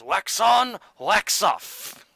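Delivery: lightly voiced Mister Miyagi old man; a hint of a wise old mentor. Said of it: "My old man voice sounds like Mister Miyagi".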